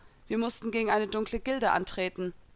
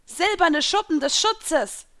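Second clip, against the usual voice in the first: high, loud, slow incantation; called-out spell; 9 semitones higher, 6 dB louder, slower than usual. A narrator's reading. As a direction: call the spell out, stretching it. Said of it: "riefen die Fische".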